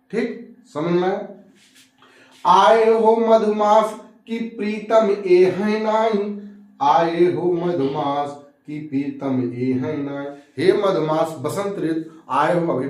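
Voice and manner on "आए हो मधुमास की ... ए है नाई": slow, drawn-out poem chant; measured recital of a couplet; verse recitation. Acted. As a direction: stretch each phrase, falling at the close.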